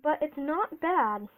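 slow, chewing while talking; mouth full. Real, not acted. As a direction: talk around a mouthful of candy. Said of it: "once you start chewing it more".

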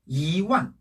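"이" rising weakly, "완" falling strongly; weak-strong tones on "이 완"; second-tone 이. Shown as a demonstration. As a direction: lift "이", then drop "완". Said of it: "그래서 이 성".

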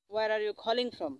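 slow, deliberate English phrase; slow teaching demo. Shown as a demonstration. Teacher modelling a phone question for students, slowly. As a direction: lay out every word slowly for the class. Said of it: "তো এটা বলবেন আপনি".

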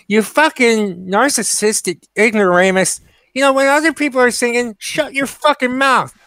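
scornful telling-off straight to camera; direct rant. Real, not acted. Vlogger tells off the karaoke woman in a scornful rant. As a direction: scold her like she's right there.

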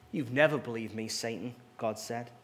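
expressive read-aloud storytelling; story reading. Acted. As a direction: read the tale to the congregation, voicing its figures. Reads a story aloud in sermon.

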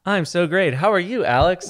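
high, lifted mimicking greeting; mimicking co-host. Host echoing the co-host's way of saying how are you, mimicking. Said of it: "mimicking how you were saying it".

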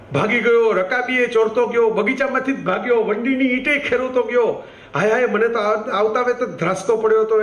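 a hint of a wailing housemaid; servant's lament. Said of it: "આવું નોકરબાઈ બોલી".

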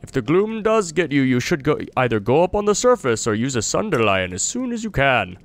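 a touch of a friendly traveler voice; a hint of a relieved wanderer thanking his rescuer; lightly voiced traveler. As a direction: read the stranger's lines as a grateful, chatty traveler. Voicing NPC dialogue while playing.

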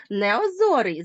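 Неозорий with the stress clearly on зо, неозОрий; careful stress. Shown as a demonstration. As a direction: lean on the syllable зо in Неозорий, as a teacher showing the stress. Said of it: "зверніть увагу на наголос". (наголос на зо: неозОрий, чітко виділений)

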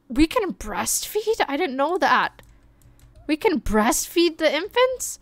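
surprised discovery. Real, not acted. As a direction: sound genuinely taken aback. Surprised at a game option.

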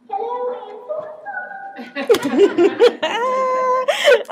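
very high, squeaky helium voice. Shown as a demonstration. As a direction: sound like you sucked a balloon. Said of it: "sound like I have helium breath".

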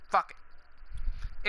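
breathy whispered fuck it under the breath; whispered aside. Real, not acted. Gamer mutters to himself mid-rant, whispered. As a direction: drop to a voiceless whisper for a quick aside.

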